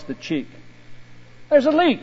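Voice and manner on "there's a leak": pronouncing. A narrator's reading. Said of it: "he pronounced".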